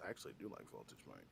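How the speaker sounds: whispered aside; whispering. Real, not acted. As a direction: confide it under your breath. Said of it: "You're like, "How about that?".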